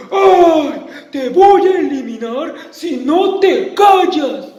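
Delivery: amenaza aguda y gritada; monstruo furioso. Acted. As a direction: grita para callarla. (monstruo furioso amenaza a la niña)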